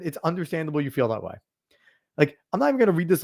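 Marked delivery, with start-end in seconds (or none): 0.0-1.3 a condescending, softer It's understandable you feel that way. Retold or imitated. Mocking someone who brushes off a partner's feelings, condescending. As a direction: talk down to them, quietly. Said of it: "That's condescending".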